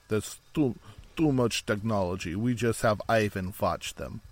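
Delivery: badly faked Russian accent. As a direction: put on a clumsy mock Russian accent. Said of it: "really bad Russian accent".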